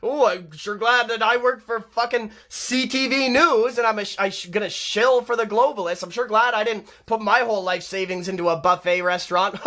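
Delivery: mocking a smug newscaster. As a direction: sneer it like a gloating news anchor. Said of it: "And he's like".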